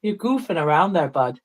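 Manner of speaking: Canadian accent going Irish; attempted Canadian accent. Shown as a demonstration. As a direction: try a Canadian accent that slides toward Irish. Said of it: "It's gonna go Irish".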